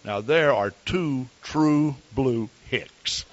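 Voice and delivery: slow, drawn-out mocking remark; lightly voiced teasing church lady; amused onlooker. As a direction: savour the joke slowly. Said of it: "She said".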